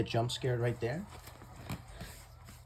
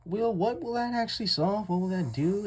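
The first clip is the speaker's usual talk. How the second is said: higher-pitched doubting voice; viewer's doubting question; 8 semitones higher than usual. Acted. Imagining a viewer questioning the point, higher doubting voice. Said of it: "that you may think".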